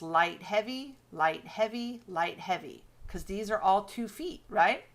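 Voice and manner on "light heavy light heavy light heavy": "light heavy" repeated as evenly paired beats; light-heavy rhythm. Shown as a demonstration. Teacher showing the iambic pattern, in rhythmic pairs. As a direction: count out "light heavy" pair by pair, settling on the last. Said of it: "called a light heavy pattern".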